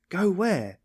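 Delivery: high, startled alarm. A narrator's reading. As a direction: ask it frightened, stepping back. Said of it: "she asked in alarm".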